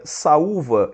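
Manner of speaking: saúva with a loud, drawn-out stressed ú. Shown as a demonstration. Teacher showing the hiatus to students, stressed ú in saúva. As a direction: stretch saúva, leaning on the ú as its own syllable. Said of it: "eu vou acentuar o U".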